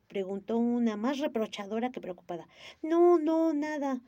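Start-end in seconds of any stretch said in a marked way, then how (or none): 2.8-4.0 reassuring. Acted. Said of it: "se aseguró Gigi".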